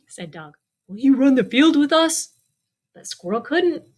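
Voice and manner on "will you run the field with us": a bit higher, eager dog invitation; storyteller lightly voicing a dog. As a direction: ask like a bouncy dog. Dog speaks in picture book.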